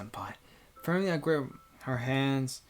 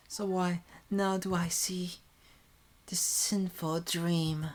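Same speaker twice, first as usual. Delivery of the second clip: higher, slow, tearful; near tears; 6 semitones higher, slower than usual. Acted. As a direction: let the words almost break. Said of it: "Like crying".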